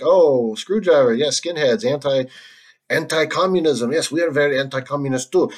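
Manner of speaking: badly faked Korean accent; terrible Korean accent. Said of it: "that's a terrible impression".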